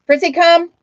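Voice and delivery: high loud call to the dog. Real, not acted. Owner calling her dog Fritzy, loud. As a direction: call him in, loud and bright.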